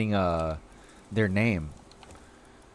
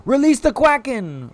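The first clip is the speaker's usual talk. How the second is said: high, loud "Release", said with a proper R; mock epic command; 10 semitones higher, 5 dB louder than usual. Streamer unleashing chat's quacks, loud mock-epic call. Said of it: "Or should I say woolies".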